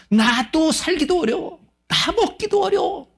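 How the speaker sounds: high, slow whining complaint; whiny complaint. Retold or imitated. Selfish churchgoer whining that he can barely eat. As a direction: whine like someone who has too little.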